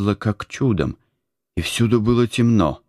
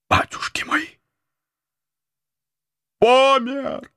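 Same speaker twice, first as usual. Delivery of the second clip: high, terrified gasping cry; frightened cry. A narrator's reading. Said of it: "закричал он от страха". (испуганный вскрик)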